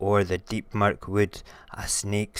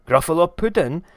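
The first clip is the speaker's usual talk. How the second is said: high, loud alarmed echo; high-pitched shocked question; horrified Gruffalo; 9 semitones higher, 11 dB louder, faster than usual. Acted. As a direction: shout it back in dismay at being dinner.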